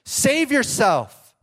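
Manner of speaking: the crowd jeering harder, loud and slow. Retold or imitated. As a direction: stretch the jeer out and shout it. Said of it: "the people shouted".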